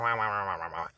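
babbled wah-wah mockery; mocking squirrel noises. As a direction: imitate someone's chatter as nonsense syllables. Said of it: "You sound like a fucking squirrel".

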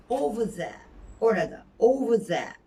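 "Over there." with there as "zæ"; there pronunciation. Shown as a demonstration. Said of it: "oraya anlamı taşıyan the".

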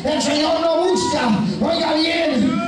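forceful, shouted exhortation; full-force preaching. Real, not acted. Preacher urging believers to keep crying out, full-force preaching. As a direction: drive every phrase home to the congregation.

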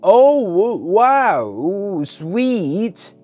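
put-on high, loud delighted boy; gleeful. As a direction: gush with glee. Matt delighted in the story.

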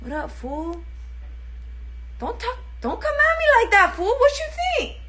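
put-on high, loud Chicana chola accent. Chola picking a fight, loud Chicana accent. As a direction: get in their face like a tough chola. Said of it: "Do a chola?".

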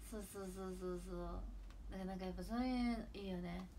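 normal talking voice

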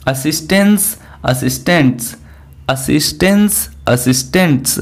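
alternating "असिस्टेंस" up and "असिस्टेंट्स" down; contrasting pronunciation drill. Shown as a demonstration. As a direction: drill the two words back and forth. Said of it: "confusing word".

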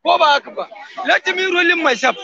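lightly voiced Ukraine begging Russia to let go; pleading Ukraine. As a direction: beg to be set free as Ukraine. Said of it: "Ukraine, I say, leave me".

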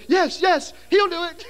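high, loud mocking cheer; egging him on; eager crowd. The other scouts volunteering him, high and eager.

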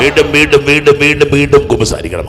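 high, insistent repetition, easing at the end; loud exhortation. Real, not acted. Preacher urging the faithful to confess repeatedly, loud exhortation. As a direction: drum the repeated word into them.

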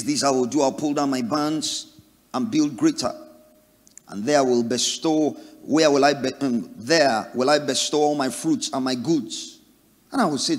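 loud, proud declaration of plans; rich man's loud boast. Acted. Preacher voicing the boastful rich man, loud and proud. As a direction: announce the plans to the whole village.

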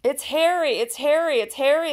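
put-on children's happy cry of recognition; excited cry. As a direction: cry out the news in delight. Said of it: "they cried".

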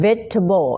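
"vegetable" with no "jet", in three syllables; three-syllable pronunciation. Shown as a demonstration. Teacher answering a learner, demonstrated three-syllable pronunciation. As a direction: model "vegetable" slowly as vej-tuh-bul. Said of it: "ออกเสียงเป็น vegetable".

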